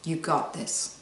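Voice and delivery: soft, quiet self-encouragement. Shown as a demonstration. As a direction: murmur it gently to yourself. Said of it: "say to yourself out loud".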